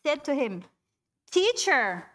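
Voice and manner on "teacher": panicked plea. Acted. Disciples panicked in the storm.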